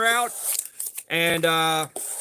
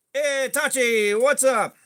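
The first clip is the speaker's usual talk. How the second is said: greeting a viewer; 4 semitones higher, slower than usual. Real, not acted. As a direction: call out a friendly greeting.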